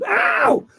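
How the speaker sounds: very high yelp of pain; hammed-up high "ow"; sudden pained yelp. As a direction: yelp as if bitten. Acts out being bitten by dog.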